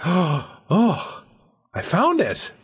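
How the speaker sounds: high, gasping wonder at a hidden find; high awed whisper-free gasp of discovery; amazed discovery. Pretend. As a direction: breathe it out like you just stumbled on a secret. Imagining stepping into the forest.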